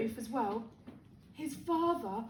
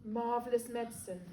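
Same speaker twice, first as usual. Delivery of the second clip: low, softer private remark; musing to himself; 4 semitones lower, 6 dB quieter than usual. A narrator's reading. George marvelling privately at his medicine, musing to himself. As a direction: murmur it to yourself. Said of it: "George told himself".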